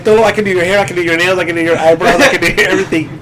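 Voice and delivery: lightly imitated valley-girl listing. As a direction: rattle off offers as a mock valley girl. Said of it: "like a valley girl?".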